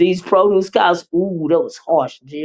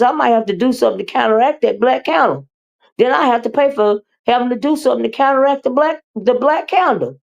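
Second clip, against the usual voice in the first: higher and fast, tumbling out the worry; excited rant; 6 semitones higher than usual. Real, not acted. To her chat, rambling fast and high about candles. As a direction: rattle it off, half-joking alarm.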